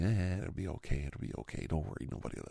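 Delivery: light coaxing that fades to a whisper. Retold or imitated. Host coaxing nervous friend to record, hushed reassurance. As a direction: soothe her nerves under your breath. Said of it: "that's what you do when you're a person like me".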